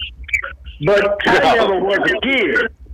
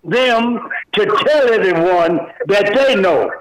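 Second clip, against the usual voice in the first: hyped wrestling announcer intro; wrestling promo. Pretend. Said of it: "in your best, uh, wrestling promo here".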